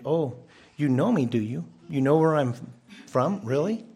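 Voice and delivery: mock-doubtful questioning with rises on the questions; ironic question. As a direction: tease them with "do you?" and "really?". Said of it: "This could also be as a question".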